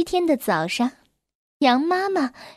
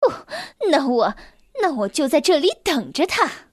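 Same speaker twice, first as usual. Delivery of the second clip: angry. Acted. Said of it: "气冲冲地说".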